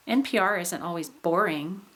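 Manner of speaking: rise-fall on the final word "boring"; high tone on BORING. Shown as a demonstration. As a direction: stress the first syllable of "boring", then fall. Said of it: "put the high tone".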